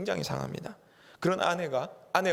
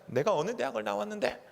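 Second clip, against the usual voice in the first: a wife's complaint rising much higher into shrieking reproach; nagging wife; 7 semitones higher than usual. Retold or imitated. Pastor voicing a wife reproaching her husband, high and nagging. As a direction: scold him, climbing ever higher. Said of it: "아내가 또 이렇게 얘기할 수 있습니다".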